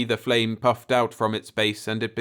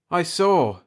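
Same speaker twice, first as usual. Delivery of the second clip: higher, louder, full of awe; awed; 8 semitones higher, 5 dB louder than usual. A narrator's reading. Jeff answering his father in awe. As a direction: breathe it in wonder. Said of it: "filled with a new awe".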